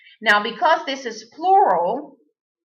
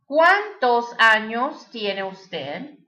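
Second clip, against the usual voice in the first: slow, careful Spanish with a rising end; slow teacher's model question in Spanish; slower than usual. Shown as a demonstration. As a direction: say it slowly so learners can copy. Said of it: "That means, how old are you?".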